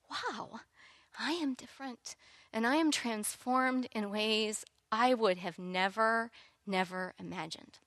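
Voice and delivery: soft, hushed wonder; awed whisper of change; quiet awe. Retold or imitated. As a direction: say it softly as a revelation. Retold awed realisation.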